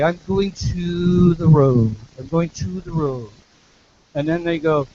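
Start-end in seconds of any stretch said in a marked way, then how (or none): 0.0-3.3 Irish accent. Shown as a demonstration. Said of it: "the Irish might say".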